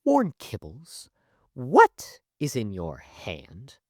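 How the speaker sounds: slow, deliberate confrontation; cold teacher. Retold or imitated. Teacher catching student with food, coldly stern. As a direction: imitate a stern, suspicious teacher. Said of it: "turns a cold glare at me and just goes".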